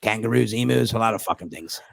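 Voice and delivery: Australian mate listing dangers; Australian accent. Retold or imitated. Australian comic warning about wildlife, Australian accent. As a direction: rattle off the hazards in an Australian accent. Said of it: "It's a good Australian accent".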